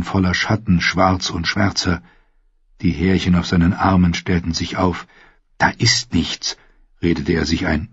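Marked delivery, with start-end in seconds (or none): 5.6-6.6 whispered to himself, voice almost gone; frightened whisper. Acted. Sam whispers alone in the dark, scared whisper. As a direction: hush it, talking yourself out of fear.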